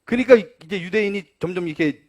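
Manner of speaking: usual speaking voice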